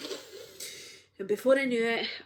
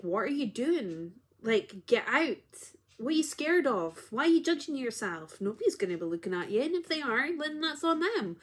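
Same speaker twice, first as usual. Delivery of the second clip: self pep talk; 3 semitones higher, 3 dB louder than usual. Retold or imitated. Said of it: "two sides of me were talking to me".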